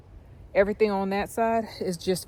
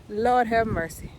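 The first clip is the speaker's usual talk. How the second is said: exclaiming; 3 semitones higher, 5 dB louder, slower than usual. Real, not acted. Exclaims after whoop, tired.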